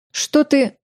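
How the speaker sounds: jumps up high in pitch, caught off guard; startled gasp. A narrator's reading. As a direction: gasp it out in surprise. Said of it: "ахнула Тиара".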